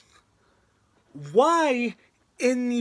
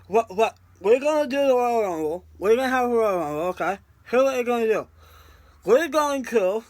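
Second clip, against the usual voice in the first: lightly voiced pushy TV producer; bad Kevin Dunn impression. Vlogger keeps mocking the WWE producer's plan, lightly voiced bossy impression. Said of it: "I'm doing a bad Kevin Dunn impression".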